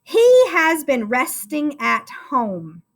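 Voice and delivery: slow, clear dictation. Shown as a demonstration. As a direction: read each word slowly for the class to write. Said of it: "here's your sentence".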